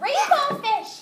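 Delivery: a small fish calling high after the big one; little fish calling. Acted. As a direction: call out high and drawn-out, like a tiny fish chasing. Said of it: "he called".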